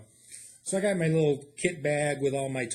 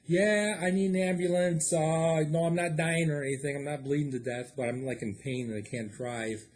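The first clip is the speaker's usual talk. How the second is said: caller on the phone; 2 semitones higher than usual. Retold or imitated. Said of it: "I call nine one one".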